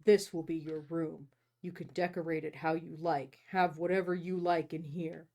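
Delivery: low, measured novel reading; story narration. A narrator's reading. Host reading the hero showing her the bedroom, story narration. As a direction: read low and evenly as the first-person hero.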